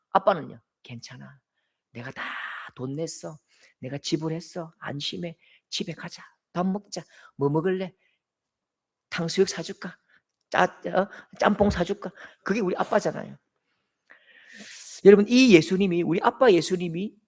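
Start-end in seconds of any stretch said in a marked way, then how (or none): 0.8-12.1 much softer, low and tender; father offering his son dinner; gentle father. Retold or imitated. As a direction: murmur comfort to your boy.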